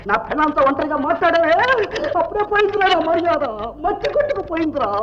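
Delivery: high-pitched outraged complaint; indignant protest. Acted. Indignant quarrel over his honour. (ఆగ్రహంతో హెచ్చు స్వరంలో)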